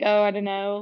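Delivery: attempted British accent, lightly done; a shaky try at a British accent. Imitating a British accent around the house, mild British accent. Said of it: "that's my version of a British accent".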